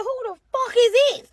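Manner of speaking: high, loud, baffled outrage to yourself; what on earth is going on, thought loudly; indignant inner thought; exasperated inner voice. Retold or imitated. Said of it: "I'm saying this in my mind".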